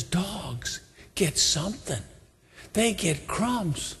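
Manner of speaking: softly acted tearful plea; a touch of tears, quietly insistent; tearful, determined. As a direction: plead gently but hold your ground. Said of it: "And she's crying".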